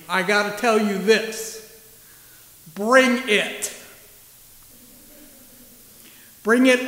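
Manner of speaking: a touch of bold readiness; rally yourself, ready for the mission; eager Mary. Retold or imitated. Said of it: "it comes out more like this".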